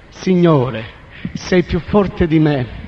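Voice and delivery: slow, resigned yielding; slow surrender. Retold or imitated. Kneeling man yielding to the Lord, slow and resigned. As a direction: give in, each word drawn out.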